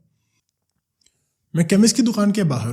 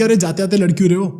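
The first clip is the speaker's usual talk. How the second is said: loud, quick, exasperated call from behind; 5 semitones higher, 7 dB louder, faster than usual. Retold or imitated. Aunt calling after husband and son quarrelling on the stairs, loud exasperated call. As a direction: shout after them to stop bickering.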